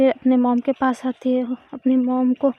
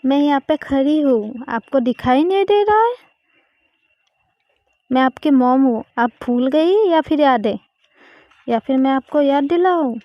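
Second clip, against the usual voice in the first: louder, sharp telling-off from an annoyed mom; scolding mother; 5 dB louder than usual. Acted. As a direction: scold her like a mother whose child slipped out. Mom scolds Riya for not telling. (गुस्से में डाँटती माँ)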